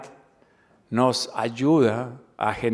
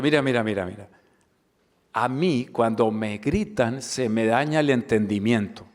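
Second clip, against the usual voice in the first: unhurried, level "mira, mira, mira" then a gentle complaint; calm stopping tone; 2 semitones lower than usual. Shown as a demonstration. Answering a shouting colleague with a calm, gentle voice. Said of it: "Y lo digo en ese tono".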